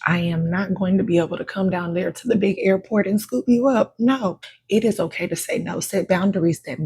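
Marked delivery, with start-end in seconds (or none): 0.1-3.9 emphatic refusal. Acted. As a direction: shut the request down hard. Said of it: "never saying".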